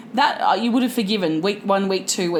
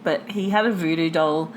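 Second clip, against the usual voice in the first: muffled behind a hand; conspiratorial aside behind hand; hand over mouth; 4 semitones lower, 3 dB quieter than usual. Pretend. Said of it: "I'm talking behind my hand".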